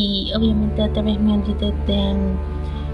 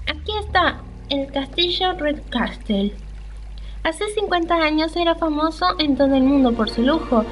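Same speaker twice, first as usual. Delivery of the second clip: slightly lifted, measured read-aloud; story narration; 3 semitones higher than usual. Acted. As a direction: narrate the old castle's history from the game text. Reads the game's castle description.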